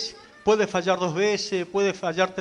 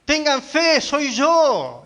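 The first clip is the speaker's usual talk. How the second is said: preacher's acted call to the frightened, higher pitched; retold reassuring call; 4 semitones higher than usual. The Lord to frightened disciples in the storm, retold reassuring call. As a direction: imitate the Lord calling out, voice lifted higher. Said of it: "el Señor le dice".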